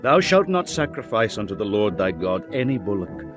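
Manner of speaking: ordinary delivery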